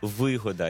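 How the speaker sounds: вигода stressed on ВИ; вигода, weight up front; stress on first syllable. Shown as a demonstration. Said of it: "є також іменник вигода".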